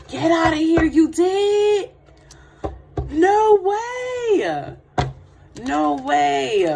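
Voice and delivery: can't believe the viewer's news; shocked delight. Real, not acted. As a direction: gasp then high, loud disbelief.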